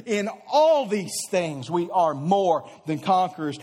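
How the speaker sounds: joyful laugh through the verse; delighted laughing scripture read. Real, not acted. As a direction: let a real laugh spill into it. Laughs mid-verse from joy.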